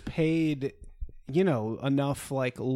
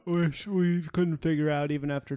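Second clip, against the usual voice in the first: yawning; 3 semitones higher than usual. Real, not acted. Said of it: "Could you yawn more into".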